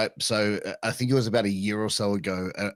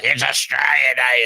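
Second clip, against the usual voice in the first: lightly voiced redneck Australian, a bit louder; mock redneck Aussie; 3 semitones higher, 6 dB louder than usual. Mocking redneck Australians who insist it's Australia Day, lightly voiced Australian accent. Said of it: "white redneck Australians are like".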